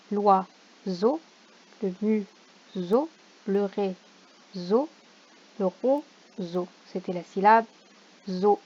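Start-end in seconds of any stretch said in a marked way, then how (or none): 0.1-6.7 slow, even, syllable by syllable; slow syllable reading. Shown as a demonstration. Teacher to children at home, slow syllable reading. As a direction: let each syllable sit. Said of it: "reads word list slowly".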